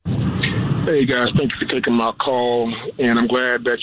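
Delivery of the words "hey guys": normal talking voice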